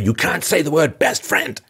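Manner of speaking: high, slow mock child voice; mocking child rule. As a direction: whine it like a scolded kid. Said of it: "What children say".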